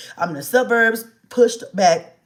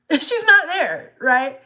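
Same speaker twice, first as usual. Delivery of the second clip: slow and high, laughing through panic; nervous laugh; 7 semitones higher, slower than usual. Real, not acted. Mom telling viewers her daughter wasn't there, nervous laughing. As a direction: laugh because it isn't funny. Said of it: "I'm laughing now, but it's not funny".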